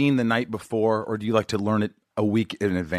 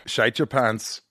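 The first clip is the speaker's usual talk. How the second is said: an American trying Scottish on "shite"; amateur Scottish accent; attempted Scottish; much slower than usual. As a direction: mimic a Scottish accent lightly. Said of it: "that sounds pretty Scottish".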